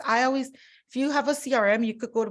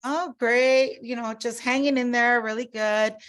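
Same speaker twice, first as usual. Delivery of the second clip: role-play small talk; 4 dB louder than usual. Shown as a demonstration. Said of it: "I'll do this with Laura".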